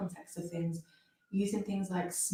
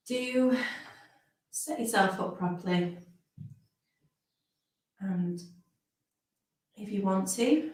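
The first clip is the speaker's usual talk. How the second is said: slow phrases with long pauses; guided meditation. Real, not acted. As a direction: ease listeners gently into rest, phrase by phrase.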